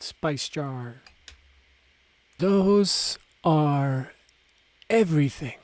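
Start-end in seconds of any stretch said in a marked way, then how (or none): 2.4-5.6 put-on old crone voice. A narrator's reading. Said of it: "the crone said".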